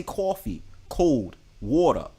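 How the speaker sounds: slow New York vowels on "coffee", "cold", "water"; New York accent. Shown as a demonstration. New Yorker showing off giveaway words, New York accent. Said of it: "I couldn't make up this accent".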